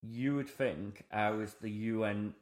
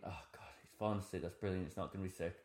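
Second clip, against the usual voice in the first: low-volume, quick muttered thought; hushed, hurried thinking aloud; inner thought; 4 semitones lower, 11 dB quieter, faster than usual. Retold or imitated. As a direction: think it to yourself, very softly. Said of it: "in my head, I was thinking".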